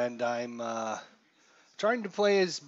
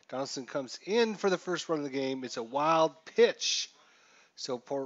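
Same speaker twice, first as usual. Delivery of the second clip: brisk, slightly raised announcer call; play-by-play call; 2 semitones higher than usual. Acted. Announcer calling a wild pitch that scores a run, brisk. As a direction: narrate the pitch as it happens.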